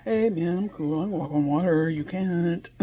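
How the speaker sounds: mock cool. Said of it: "it was not a lesson in coolness".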